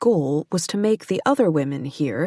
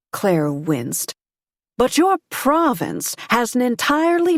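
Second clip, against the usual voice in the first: a sharp lady pressing her point, a bit louder; pointed society woman; 2 semitones higher, 3 dB louder than usual. Acted. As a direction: needle him with polite confidence. Abigail presses her political point.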